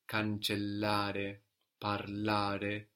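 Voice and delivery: "cancellare, parlare" with the stressed A in -ARE; stress on the ending. Shown as a demonstration. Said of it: "mostly we have it on the ending".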